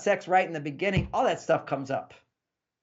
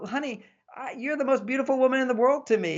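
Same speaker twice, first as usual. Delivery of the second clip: high-pitched, quick declaration of love; acted reassurance; 9 semitones higher, faster than usual. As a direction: play a husband reassuring his wife. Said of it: "you let her know".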